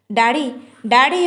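loud, slow, drawn-out call of daddy; daughter yelling for dad. Acted. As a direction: call out for your father, urgent and upset. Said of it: "అంటూ అరిచింది మిథ్య".

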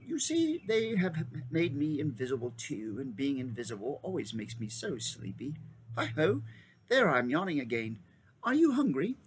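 put-on high, kindly old wizard; a lightly voiced old magician. Magician speaks.

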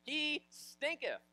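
very high, drawn-out exclamation; hammed-up punchline. Martha warns about four days dead, hammed-up punchline. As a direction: stretch each word for comic disgust.

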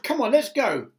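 high, loud urging; eager chorus. A narrator's reading. Creatures keen to climb out and look, excited chorus. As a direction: urge everyone on excitedly. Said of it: "they chorused".

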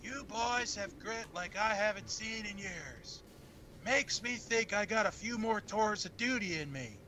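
lightly voiced gruff drill sergeant; a hint of an old army sergeant; Sergeant Slaughter voice. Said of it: "doing the Sergeant Slaughter voice".

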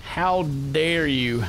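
mock-indignant Titan. Titan glaring at the player, mock indignation. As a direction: drag it out in mock offence. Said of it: "like he's really mad about it".

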